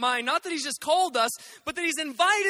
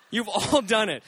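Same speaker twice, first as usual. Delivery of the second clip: laughing; 4 semitones lower than usual. Real, not acted. Pastor laughing as he teases the congregation. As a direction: laugh through the repeat.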